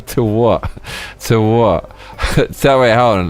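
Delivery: laughing, incredulous questioning; amused disbelief. Real, not acted. Streamer questioning a viewer's absurd remark, amused and incredulous. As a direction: ask through real laughter, baffled.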